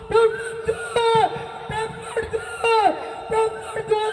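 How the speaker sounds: repeating দে in rising desperation; frantic demand. Acted. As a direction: grab at it, begging and shouting at once. (কাঁদো কাঁদো চিৎকারে দাবি)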